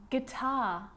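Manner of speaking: "guitar" as gih-TAH, no U sound; careful slow "guitar" as an example word; silent U. Shown as a demonstration. Teacher showing common silent U words, slow careful model. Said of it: "the letter U can also be silent".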